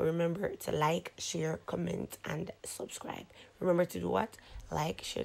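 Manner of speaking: speaking with cheek retractor; lips held apart. Real, not acted. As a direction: teeth bared, lips stretched. Seen 1: Lips held wide apart by white retractor, teeth exposed throughout.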